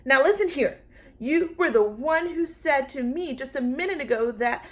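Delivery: high, loud and snippy. A narrator's reading. Lulu scolding the Brontosaurus, snippy and loud. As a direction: snap at him like a cross little girl. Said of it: "in a very snippy voice".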